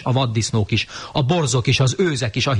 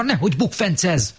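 warning; 11 semitones higher than usual. Acted. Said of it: "mondta Mikka Makka".

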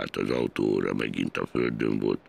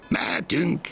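call out. A narrator's reading. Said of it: "kiáltott előre".

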